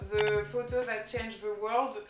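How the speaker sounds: English title said with a thick French accent. Real, not acted. Book title read aloud to viewers, French-accented English. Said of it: "désolée pour mon accent pourri".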